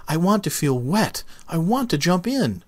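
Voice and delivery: high, eager little seed voice; the tiny seed begging to ride the wind; lightly voiced eager seed; grinning little seed. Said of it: "he said with a grin".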